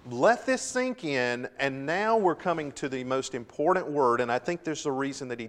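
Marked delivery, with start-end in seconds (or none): 0.1-1.5 slow, drawn-out. Shown as a demonstration. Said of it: "and it's let that sink in".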